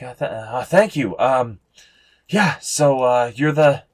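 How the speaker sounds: put-on unsure young man. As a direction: stumble politely toward a question.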